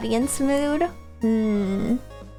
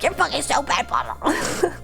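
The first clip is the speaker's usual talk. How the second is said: sisterly insult. Retold or imitated. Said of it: "whenever I talk to my sister, I'm like".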